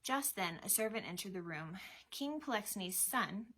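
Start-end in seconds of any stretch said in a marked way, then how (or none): 2.1-3.5 measured servant's announcement; mildly formal proclamation; announcing. A narrator's reading. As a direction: announce a royal guest. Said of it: "he announced".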